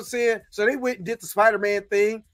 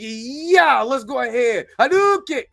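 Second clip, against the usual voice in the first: higher mock attack yell, Hadouken shouted high; hammed-up video game fireball call; mock battle cry; 3 semitones higher, 3 dB louder than usual. Mother urging daughter to attack, mock battle cry.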